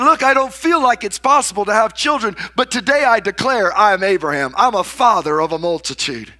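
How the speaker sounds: loud, high, proclaiming it as Abraham; bold declaration. Retold or imitated. Abraham declaring to the world, loud proclamation. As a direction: declare it boldly to the doubters.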